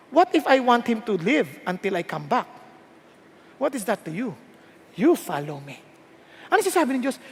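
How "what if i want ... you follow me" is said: low, soft divine answer; God's rebuke. Acted. The Lord answering Peter, low and firm. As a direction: answer quietly and firmly, pitch dropped. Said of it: "Ang sabi ng Diyos".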